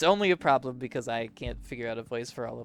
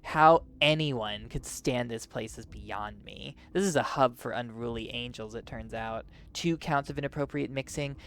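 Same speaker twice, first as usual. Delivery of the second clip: lightly voiced angel enforcer, slightly lowered; stern, irritated enforcer. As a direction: grumble like a fed-up official. Voices a stern official character.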